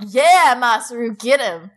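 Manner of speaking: root for him like a fan; cheering. Real, not acted. Cheering on the hero.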